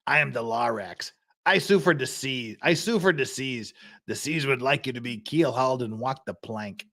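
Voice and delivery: a hint of DeVito's Lorax; mild DeVito-style Lorax impression; Danny DeVito as Lorax. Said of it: "the Danny DeVito shika".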